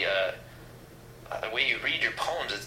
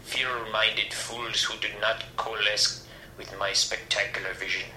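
lightly voiced megalomaniac proclamation; a hint of a pompous supervillain speech; grandiose tyrant. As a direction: declaim it in measured phrases, pausing for weight. Grandiose villain's proclamation of a gun seizure.

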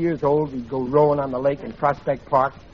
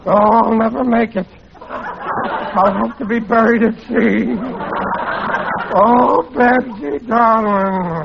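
melodramatic moaning; 5 semitones higher, slower than usual. Acted. Seasick father wallowing melodramatically.

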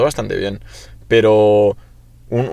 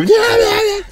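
very high, squeaky brush-off; mock him brushing you off; mocking dismissive friend; much slower than usual. Mocking Alex brushing off his friends, high and squeaky. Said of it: "Y tú".

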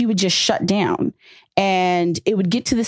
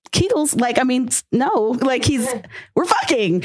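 exasperated; 5 semitones higher than usual. Retold or imitated. Retold fight during group sex.

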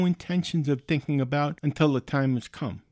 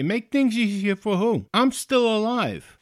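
high-pitched, incredulous retort; retold phone-call protest; indignant outrage; 7 semitones higher, 3 dB louder than usual. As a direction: throw it back at them, outraged. Retold angry call to insurer.

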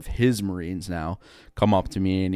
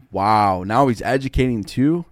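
mock amazement; 2 semitones higher, 7 dB louder than usual. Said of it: "And I'm like".

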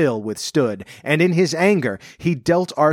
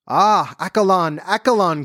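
higher-pitched, understated exclamation; narrated cry; 6 semitones higher than usual. A narrator's reading. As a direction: cry out the name, pitched up but not shouted. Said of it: "cried the king".

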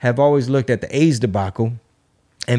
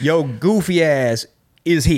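laughing; 2 semitones higher than usual. Pretend. Mocking sign on a map.

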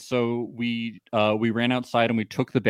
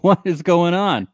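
mock furious; 4 semitones higher, 6 dB louder than usual. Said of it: "He's furious".

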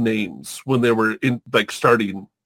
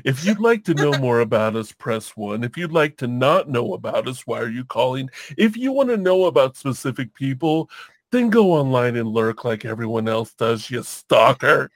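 customer service voice. Pretend. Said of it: "our customer service voices".

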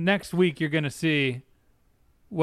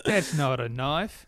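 mock Australian; slower than usual. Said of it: "Australian persona".

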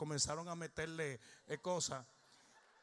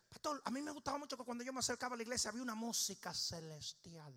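imitating Pastor Chepe; 5 semitones higher, faster than usual. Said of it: "Pastor Chepe viene y dice".

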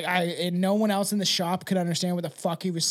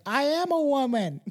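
higher-pitched mock action-star impression; hammed-up Austrian strongman playing a woman; Arnold Schwarzenegger; 8 semitones higher than usual. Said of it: "It's Arnold Schwarzenegger".

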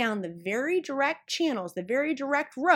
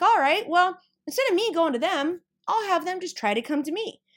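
mock new plan; 6 semitones higher, 3 dB louder than usual. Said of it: "And you're like".

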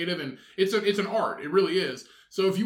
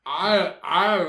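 put-on basic girl voice; 6 dB louder than usual. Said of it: "Every, every basic girl voice".

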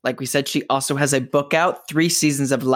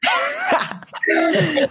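laughing; a sudden high, delighted laugh; high burst of laughter. Real, not acted. Host laughing at the guest's loaded-question remark, high delighted laugh.

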